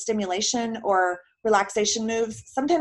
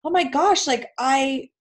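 higher, mildly exasperated mock complaint; lightly acted, higher-pitched grumble; imitated complaint; 5 semitones higher, slower than usual. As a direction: voice a patient's dismayed complaint, pitched up. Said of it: "that camp of people will complain".

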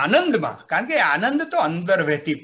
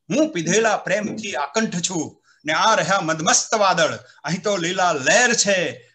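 poem recital; 2 semitones lower than usual. Shown as a demonstration. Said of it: "મેં ચાર પંક્તિ લખી કે".

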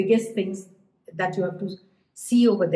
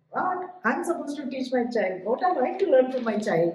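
triggered parent; 5 semitones higher than usual. Acted. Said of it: "parents get so triggered all over again".

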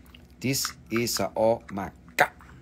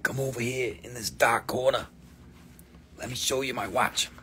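hushed shady watch seller; sketchy street hustler with a whispered psst; trench coat voice; 6 dB quieter than usual. Pretend. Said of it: "I'm gonna give you my trench coat voice".

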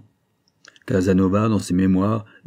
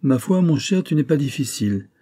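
put-on higher voice for the old lady, teasing; old countess; 6 semitones higher than usual. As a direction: tease him as a haughty old countess. La vieille comtesse répond. (vieille comtesse moqueuse, voix plus aiguë)

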